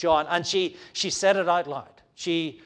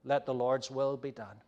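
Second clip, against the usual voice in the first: lower, softer, giving in; resigned acceptance; 4 semitones lower, 7 dB quieter than usual. Acted. Friends finally yielding to Paul, quiet resigned acceptance. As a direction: give in quietly, voice dropped. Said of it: "eventually his friend said".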